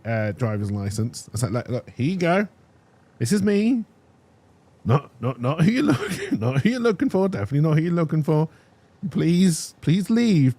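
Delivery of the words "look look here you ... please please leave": exasperated pleading. Retold or imitated.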